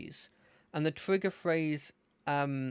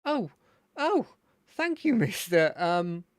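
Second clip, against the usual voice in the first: Terry; 5 dB louder than usual. Acted. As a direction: thank them in an excited fluster. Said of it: "to get me into his voice".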